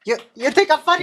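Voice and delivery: cartoon gangster challenge; Joe Pesci. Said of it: "voice actors".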